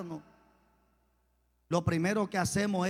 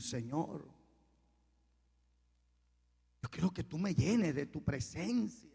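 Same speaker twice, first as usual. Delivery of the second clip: prayer; 2 semitones lower than usual. Shown as a demonstration. Preacher showing the church how to talk to God, slow prayer. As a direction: pray it haltingly, leaving space after each plea.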